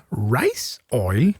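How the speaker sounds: puzzled echo with a jump up in pitch; surprised question. Real, not acted. Player didn't know that was a thing, surprised question. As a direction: query "Rice oil" as if it's news to you. Queries an oil new to him.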